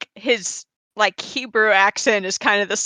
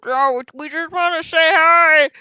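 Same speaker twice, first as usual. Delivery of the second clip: put-on high eager kid voice; 7 semitones higher than usual. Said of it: "so they're like".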